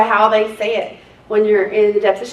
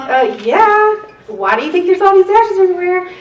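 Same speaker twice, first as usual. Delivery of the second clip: sassy retort; 8 semitones higher, 4 dB louder than usual. Retold or imitated. Retorting to attorneys.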